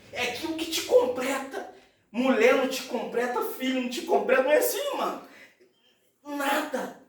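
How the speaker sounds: high, emphatic sermon voice; impassioned preaching. Acted. Preaches at full force. (pregação fervorosa, voz elevada)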